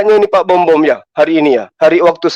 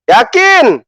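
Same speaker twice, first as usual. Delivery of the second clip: "Yakin?" asked higher, as a taunting challenge; mocking yakin; 4 semitones higher than usual. Shown as a demonstration. Host daring his rival Bom Bom, taunting high "Yakin?". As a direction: push "Yakin?" up high as a dare.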